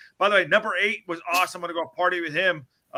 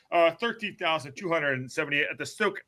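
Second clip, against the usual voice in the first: choking on water. Real, not acted. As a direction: voice catching on a swallow. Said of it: "I'm choking on water".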